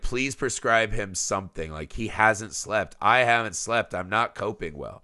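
quiet, exhausted plea; worn-out plea. Retold or imitated. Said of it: "she's talking to the doctor".

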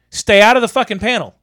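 retold angry order. Electrician warns man off the panel, retold angry order. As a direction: lay down the law, mildly heated.

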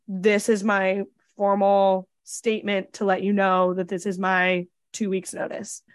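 slow, stiff, overly formal statement; mock formal. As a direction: recite it like an official announcement, slowly. Retelling a formal resignation to boss.

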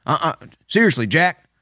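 Biden impression. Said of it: "his normal thing when he's lying".

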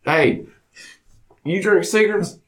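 a hint of a boozy country dad; imitating his pa. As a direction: play the rowdy hick father telling a drinking story. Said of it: "I'm about to start talking like this".

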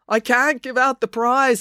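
high, slow, distressed voice; pained confession. A narrator's reading. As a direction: admit it reluctantly, drawn out. Pained Chelsea confesses prize was stolen.

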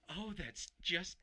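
slow, drawn-out doting coo; doting aunt voice. Retold or imitated. Mimicking mom and aunts over a squirrel photo, slow doting coo. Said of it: "that's how they talk".

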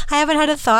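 squeaky laugh, words pitched high. Real, not acted. Laughing repeat of the remark.

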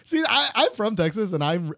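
hammed-up Texan twang; bad Texas accent. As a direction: try a fake Texas accent and crack up. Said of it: "do this all in a Texas accent".

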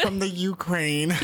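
repeats it slowly through a laugh; laughing echo. Real, not acted. Co-host echoing Natalia's line, laughing slowly. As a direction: chuckle the words out, amused.

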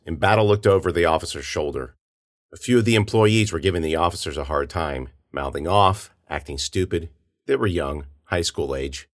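ordinary delivery, nothing marked

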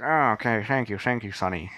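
lightly imitated old-time gangster; a hint of Dick Tracy gangster; twenties gangster. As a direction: thank them like a movie mobster. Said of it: "He sounded like a nineteen twenty gangster".

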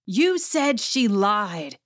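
slow, drawn-out mock shout; put-on yell, held back in volume; retold full volume. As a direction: imitate someone calling out an accusation across a room. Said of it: "she's full volume".

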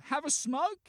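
retold shout, moderately loud; yelling. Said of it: "they just kept on yelling".

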